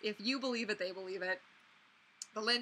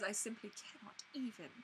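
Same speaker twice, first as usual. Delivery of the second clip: Rarity quote; 10 dB quieter than usual. Retold or imitated. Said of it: "there's a quote that she has".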